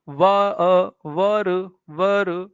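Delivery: वर taken apart as वा, अ, then joined; measured, repeated beats of वर; syllable sounded out. Shown as a demonstration. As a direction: say वर slowly with its short vowel exposed. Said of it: "university को जब आप बोलेंगे ना".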